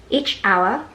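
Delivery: hour said with a rise; rising tune. Shown as a demonstration. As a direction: lift hour, unfinished. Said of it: "注意语调".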